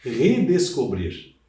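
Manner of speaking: redescobrir said slowly, syllable by syllable; teacher spelling out a word; slow, drawn out. Shown as a demonstration. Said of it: "Olha aqui, mais um prefixo".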